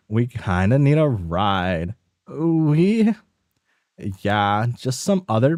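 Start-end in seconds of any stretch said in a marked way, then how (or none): 2.3-3.1 high, startled questioning voice; high confused caller. Acted. A confused friend on the phone asking who is calling, high and puzzled. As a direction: sound baffled on the phone.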